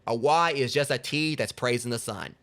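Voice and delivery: deliberate, drawn-out joke delivery; slow punchline. Real, not acted. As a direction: savor the reveal slowly. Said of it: "punchline repeated slowly".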